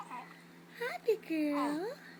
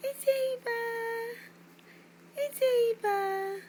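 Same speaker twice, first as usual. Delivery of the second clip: higher, louder sing-song; 4 semitones higher, 3 dB louder than usual. Real, not acted. Parent to baby.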